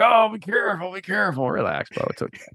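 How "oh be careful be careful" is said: cringing worrier. Retold or imitated. Podcaster friend cringing as he listens, mock-worried high voice. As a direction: imitate a friend nervously pleading caution. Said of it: "he's, like, cringing".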